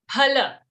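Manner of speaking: "Phala" with an aspirated p, not f; Sanskrit pha. Shown as a demonstration. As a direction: puff air after the p in "Phala". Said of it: "we have to pronounce it as pha".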